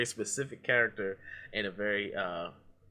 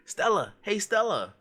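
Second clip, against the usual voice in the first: much higher, louder hammed-up call for Stella; mock anguished yell; 11 semitones higher, 4 dB louder, slower than usual. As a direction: bellow her name up at the window, overdone. Quoting the Stella scene.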